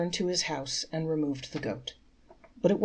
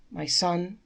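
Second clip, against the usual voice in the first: serene; 2 semitones higher, 3 dB louder than usual. Acted. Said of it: "replied the rabbi serenely".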